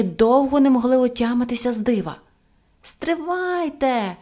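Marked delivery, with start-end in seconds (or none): 2.8-4.2 high, long-drawn call. A narrator's reading. Pippi stopping the policemen before running to the kitchen, high call. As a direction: call after them, stretching the vowels. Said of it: "гукнула Пепі".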